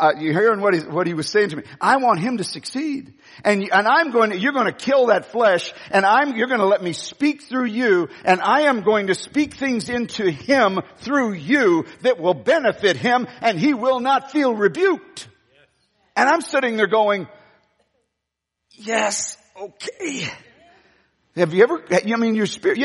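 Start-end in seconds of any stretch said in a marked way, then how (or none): 1.8-15.3 voice of the Spirit. Retold or imitated. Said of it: "The Spirit said". 18.7-20.3 soft, hushed yes with a small laugh; quiet yielding reply. Retold or imitated. Preacher answering God's voice on the bus, hushed and laughing.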